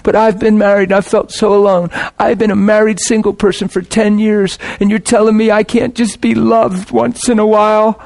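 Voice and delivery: mock the plea, rising into a whine; a lightly voiced aggrieved spouse, pitch creeping up; self-pitying complaint. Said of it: "there's a language that says".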